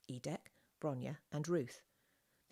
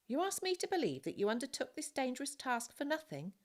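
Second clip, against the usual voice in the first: pompous officer voice; 10 semitones higher, 4 dB louder than usual. Acted. Pompous lieutenant cross-examines.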